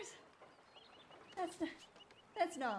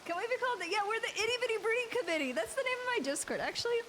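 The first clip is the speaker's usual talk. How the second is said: higher, fast excited chatter; 6 semitones higher, 3 dB louder, faster than usual. Real, not acted. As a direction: rush the joke out.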